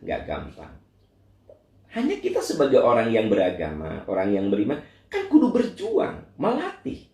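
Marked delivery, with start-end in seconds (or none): 5.1-7.1 much higher, pressing the word home; fired-up preaching. Real, not acted. Preacher urging believers to struggle, fervent and high. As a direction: urge them on with rising fervor.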